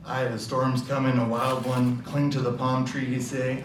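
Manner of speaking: put-on wary old sailor in an Irish lilt; Irish accent. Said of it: "an Irish accent".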